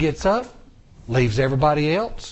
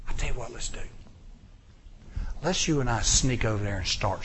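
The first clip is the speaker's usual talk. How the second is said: soft, conspiring night voice; whisper-close plotting; hushed Jonathan; 3 semitones lower, 5 dB quieter than usual. Retold or imitated. Jonathan quietly plotting with his armor bearer at night. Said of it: "He goes".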